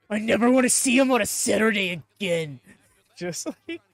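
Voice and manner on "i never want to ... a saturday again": unhinged. Retold or imitated.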